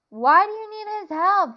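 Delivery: loud, high angry demand; angry growl. A narrator's reading. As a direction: snap it out in anger. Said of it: "John growled".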